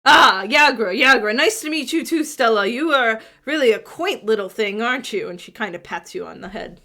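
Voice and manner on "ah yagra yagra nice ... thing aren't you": half-orc woman voice. Acted. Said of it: "half-orc greets Stella".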